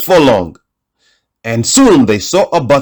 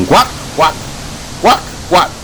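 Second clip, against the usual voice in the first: duck quacks; 3 semitones higher, 3 dB quieter than usual. Acted. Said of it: "said the little duck".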